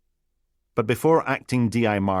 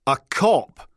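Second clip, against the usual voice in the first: aghast cry; 6 semitones higher, 5 dB louder than usual. Acted. Biohazard exclaims in dismay.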